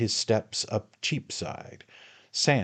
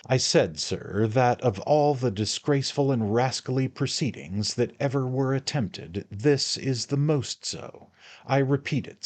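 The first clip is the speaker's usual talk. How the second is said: higher, louder, firm accusation; thoroughly roused; 6 semitones higher, 5 dB louder than usual. Acted. Mister Pickwick accusing the lawyers, roused and louder. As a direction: let him have it, fully roused. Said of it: "thoroughly roused".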